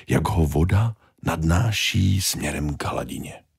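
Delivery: ordinary delivery, nothing marked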